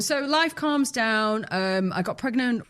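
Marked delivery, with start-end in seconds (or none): 0.0-1.4 slow echo. Acted. Echoed line, slowed and higher.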